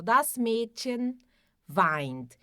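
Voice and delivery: das Mädchen weint, slow and clear; German demo. Shown as a demonstration. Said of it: "Se eu quero dizer ela chora". (das Mädchen weint, devagar e claro)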